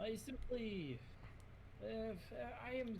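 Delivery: put-on Godo in a Russian accent. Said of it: "I'm going to my Russian accent".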